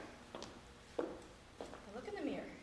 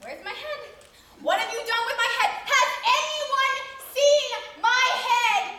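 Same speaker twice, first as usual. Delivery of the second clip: loud, higher, rising panic; mock panicked scream; 6 semitones higher, 9 dB louder than usual. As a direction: build to a frantic cry. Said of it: "So I start screaming".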